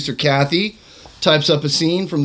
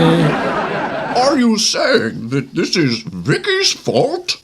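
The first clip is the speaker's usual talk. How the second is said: Bane voice; much slower than usual. Acted. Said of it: "as a Bane".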